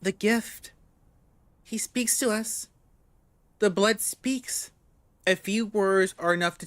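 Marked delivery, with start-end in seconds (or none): 0.0-4.7 a hint of a trembling young woman; quiet, shaky whisper; soft trembling woman. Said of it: "soft, trembling".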